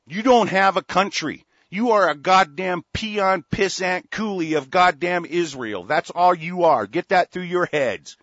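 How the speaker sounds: loud, scornful outburst; angry yelling. Real, not acted. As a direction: hammer it at them in real anger. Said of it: "I'm kinda pissed off".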